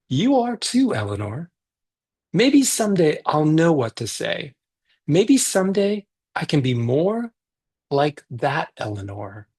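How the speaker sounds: put-on reading a picture book aloud to kids; gentle read-aloud for a virtual story circle; story narration.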